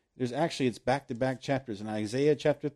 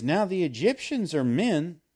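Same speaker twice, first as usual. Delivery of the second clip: louder, read as the verse; the preacher reads the verse louder; proclaimed scripture; 3 semitones higher, 5 dB louder than usual. Acted. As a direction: declare the verse from the pulpit. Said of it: "it says".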